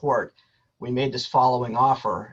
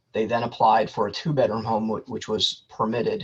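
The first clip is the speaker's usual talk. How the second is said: breaking up on phone. Real, not acted. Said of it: "you're breaking up a bit".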